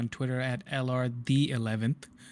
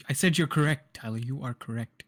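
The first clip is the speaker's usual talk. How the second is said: condescending concession; derogatory tone. Real, not acted. Co-host conceding the point to Tyler, in a derogatory tone. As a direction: concede it with a patronising edge. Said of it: "such a derogatory tone".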